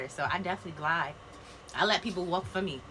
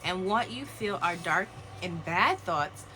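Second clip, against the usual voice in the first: solemn card reading; slower than usual. Acted. Reads card slowly, solemn.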